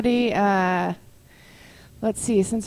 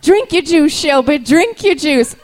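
a mother begging her sick daughter to drink; Sally Field as the mother; 7 semitones higher, 9 dB louder than usual. Pretend. Hammed-up Sally Field pleading with Shelby. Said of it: "playing the part of Sally Field".

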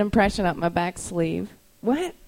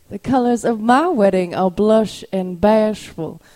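Steel Magnolias line; 5 dB louder than usual. Pretend. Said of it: "reenact a scene from Steel Magnolias".

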